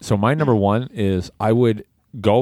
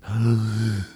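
pterodactyl screech. Shown as a demonstration. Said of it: "Can you make a pterodactyl sound?".

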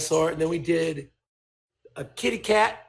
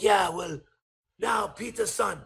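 put-on Japanese accent, addressing a friend; 4 semitones higher than usual. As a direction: imitate a Japanese mentor about to confide. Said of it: "here's my Japanese accent".

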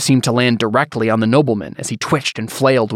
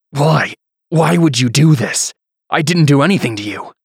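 desperate plea; 4 semitones higher, 4 dB louder than usual. Acted. Antonius pleading.

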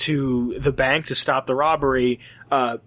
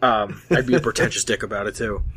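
mock pretentious; 6 semitones lower than usual. Self-mocking pretentious voice.

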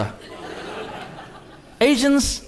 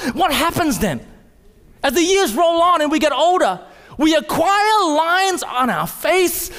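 high, urgent preacher's challenge; climbing sermon appeal to the church; full-force preaching; 6 semitones higher than usual. Acted. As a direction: press the congregation with each question.

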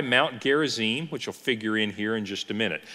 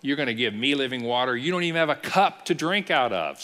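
lightly acted smart-mouthed sass; a little snarky. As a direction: imitate a snarky woman sizing up a stranger. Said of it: "she's getting a little snarky".

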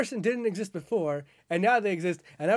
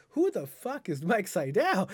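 baffled; 3 semitones higher, slower than usual. Retold or imitated. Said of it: "I was like".

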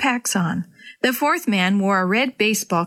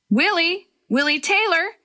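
higher calling shout; shouting a name; 8 semitones higher than usual. A narrator's reading. Rescuers search the forest, calling the boy's name. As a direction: call out across the woods. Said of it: "Several voices were shouting Willie's name".

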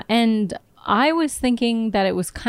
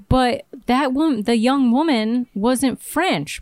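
puzzled, slow; 4 semitones higher, slower than usual. Retold or imitated. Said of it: "I was like".

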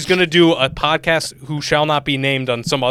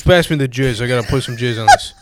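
louder, matter-of-fact mock dad; retold deadpan dad; 5 dB louder than usual. Imitating dad at dinner saying something weird, straight-faced. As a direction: ask for it as if perfectly normal. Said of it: "says weird shit but acts like it's normal".

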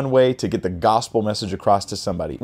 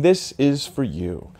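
gentle friendly offer; 2 semitones higher, slower than usual. Acted.

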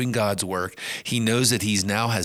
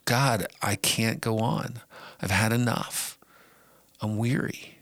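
weary Elijah. Acted. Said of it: "looks at the situation and says".

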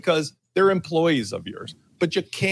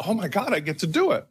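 quick, slightly higher, gushing mock excitement; mock thrill; 4 semitones higher, faster than usual. Volunteer thrilled to paint the fence, mock excitement. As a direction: gush as if thrilled to get the chore.

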